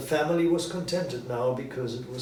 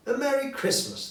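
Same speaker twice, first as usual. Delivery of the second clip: high, ringing group shout; family shouting; 13 semitones higher, 3 dB louder than usual. A narrator's reading. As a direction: call it back all together. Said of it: "the family shouted".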